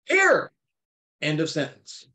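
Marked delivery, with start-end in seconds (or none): 0.0-0.5 high, loud shouted command. Retold or imitated. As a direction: cry it out, much higher and louder. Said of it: "he cried out with a loud voice".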